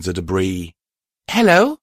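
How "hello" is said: high, raised call; high-voiced searching hello, rising at the end. A narrator's reading. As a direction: call out questioningly into the dark. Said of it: "I called out".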